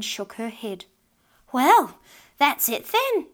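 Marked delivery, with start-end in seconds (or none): 1.5-3.3 louder, higher, drawn-out exclamation; crying out. A narrator's reading. Old woman to husband over lost pot, crying out. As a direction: cry it out slowly in exasperation. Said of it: "she cried".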